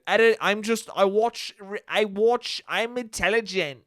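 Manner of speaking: halting, badly faked British accent; put-on British accent. Superfan caught out on the accent, defending it in mock British. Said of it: "what is that accent you're doing".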